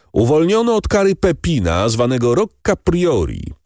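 the elder declaring the pardon to the crowd; formal announcement. A narrator's reading. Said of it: "oznajmił starszy bractwa".

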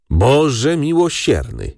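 slow, high-pitched wail, lightly acted; moaning lament. A narrator's reading. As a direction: groan it out slowly to heaven. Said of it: "jęknęła ciotka".

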